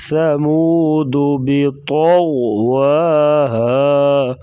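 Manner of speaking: slow, full heavy letters; tajweed recitation. Shown as a demonstration. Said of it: "تو اور غین کو پر پڑھا جائے گا موٹا".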